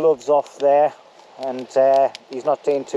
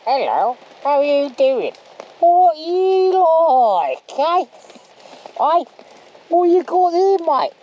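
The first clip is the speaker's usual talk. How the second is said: put-on much higher, slow, slurred drunk greeting; drunk later; 12 semitones higher, 4 dB louder, much slower than usual. Camper imagines greeting the camera later, hammed-up drunken voice. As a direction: play yourself drunk and overly friendly. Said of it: "I'll be coming out and going".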